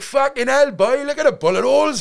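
loud, high-pitched exclamation; hammed-up shout, voice right up high; imitating astonished inmate. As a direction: mimic a mate hollering in amazement. Fellow prisoner exclaiming on arrival.

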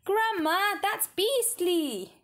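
put-on high, slow disgusted boy voice. A narrator's reading. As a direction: drag it out in disgust. George disgusted.

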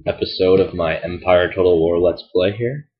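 congested, nasal voice from a blocked nose; stuffed-up nasal voice. Real, not acted. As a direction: talk through a stuffed-up nose. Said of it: "I apologize for my extremely nasally voice".

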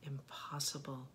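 slow, measured poetry recital; unhurried verse with deliberate breaks between phrases; poem reading. Acted. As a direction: read it line by line, lingering on the pauses. Reads a poem aloud.

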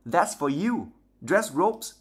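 Mrs Weasley's voice. Acted.

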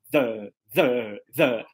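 "the" with a neutral, unstressed uh; schwa in mother. Shown as a demonstration. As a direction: draw out "the" on a relaxed schwa. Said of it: "E depois é o chua".

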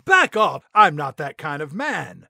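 loud, sharp push-away; firm back off. Retold or imitated. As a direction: shove her off with the words. Justin pushing her away.

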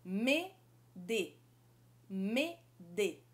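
"Me" then "de", separated; syllable drill. Shown as a demonstration. Teacher drilling French syllables. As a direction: repeat me, de apart. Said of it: "dois sons também".

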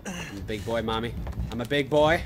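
put-on building to loud childish boast; whiny little boy. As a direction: sound like a proud kid. Self-mocking bravado building.

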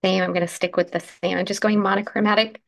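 croaky morning voice; slightly croaky, just woke up. Real, not acted. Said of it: "a morning croaky voice there".

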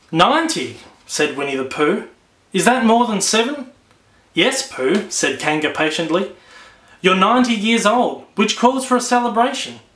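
gentle storybook reading to listeners; story read aloud. A narrator's reading. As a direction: settle them in with a storytime read. Reads the new book aloud.

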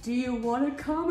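"Do you wanna come" as an exaggerated question; many question marks. Friend mimicking an invite, "come" heavily questioned. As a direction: lift "come" into a doubtful question. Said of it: "with, like, so many question marks after it".

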